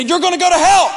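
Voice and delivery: loud, high mock-threatening yell; retold threat. Turning on a friend who wouldn't convert, mock-threatening yell. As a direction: hurl it as an over-the-top warning. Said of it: "I'd threaten 'em".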